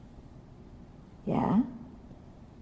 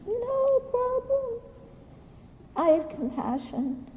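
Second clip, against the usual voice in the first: mock dismissive; 13 semitones higher than usual. Mocking complacency about guns.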